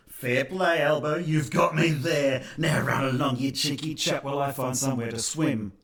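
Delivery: sarcastic polite reply to Albo; mock genteel concession. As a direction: play the gracious gentleman, hammed up. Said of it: "would you reply with".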